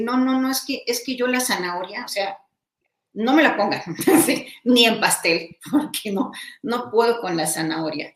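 a laughing mock of a fussy eater; picky eater. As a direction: whine like someone who can't stand carrots. Voicing someone refusing carrots.

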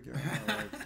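high, laughing imitation of her angry yell; half-laughing send-up of her telling him off; mock yell. Imitating the woman kicking him out of her life, high and laughing. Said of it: "And she goes".

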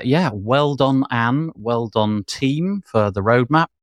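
breathless after a long rundown; out of breath. Real, not acted. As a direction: catch your breath between words. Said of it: "I'm out of breath".

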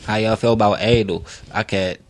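low, offhand and matter-of-fact; real nonchalant delivery. Real, not acted. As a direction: drop it casually, pitched low. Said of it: "you said that so nonchalant".

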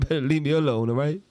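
a hint of tough-guy threat; mock tough voice. Answering the midget jab with a light mock threat. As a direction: play the small guy warning them off. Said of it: "we should switch voices".

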